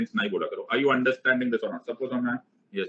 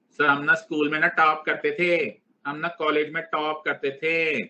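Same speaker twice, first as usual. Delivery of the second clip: boasting student; 3 semitones higher than usual. Acted. Mimics students boasting about toppers.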